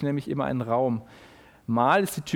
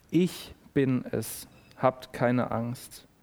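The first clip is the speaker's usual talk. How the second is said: slow reassuring words of comfort; gentle reassurance; 2 semitones lower, much slower than usual. Acted. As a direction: speak as if steadying frightened friends. Jesus reassures frightened disciples.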